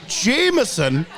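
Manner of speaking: "Jameson" drawn out slowly in the Scottish accent. Shown as a demonstration. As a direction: savour the word "Jameson" slowly. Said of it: "settle for Jameson whiskey".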